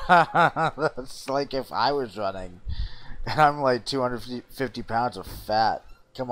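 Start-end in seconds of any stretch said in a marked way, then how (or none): 0.0-2.6 laughing. Real, not acted. Laughing at slow run.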